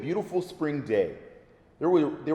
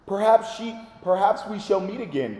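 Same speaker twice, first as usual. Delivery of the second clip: calling out; 4 semitones higher than usual. Acted. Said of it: "called the wolf".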